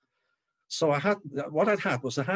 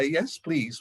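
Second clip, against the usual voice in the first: mock squeak rising on "please"; high-pitched eager reply; 3 semitones higher than usual. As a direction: retell an eager yes, voice jumping up. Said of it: "ten octaves higher than my usual voice".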